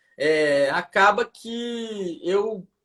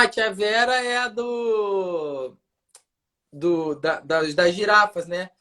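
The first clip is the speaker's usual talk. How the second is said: ordinary talk, nothing marked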